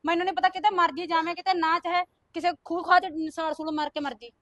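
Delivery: telling her to go die somewhere, loud and angry; angry cursing. Acted. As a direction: spit the curse at her. Cursing the pleading sister-in-law.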